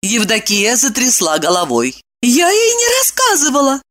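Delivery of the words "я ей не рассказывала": voiced high as a woman, urgent; alarmed heroine speaking; young woman's voice. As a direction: raise the voice into the heroine's register. Evdokia protests.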